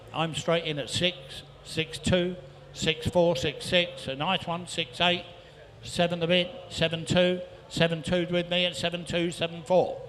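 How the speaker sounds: rhythmic rapid-fire bid calling; auctioneer calling. Real, not acted. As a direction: rattle off the bids like an auctioneer. Auctioneer taking bids.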